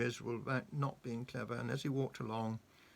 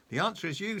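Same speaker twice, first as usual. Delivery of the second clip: Mister Dizzy's voice; 8 semitones higher, 6 dB louder than usual. A narrator's reading. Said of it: "said Mister Dizzy".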